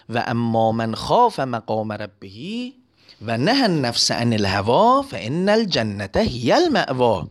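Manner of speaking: slow, chanted Arabic verse; Quran recitation. Acted. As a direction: recite it reverently, drawing out each word.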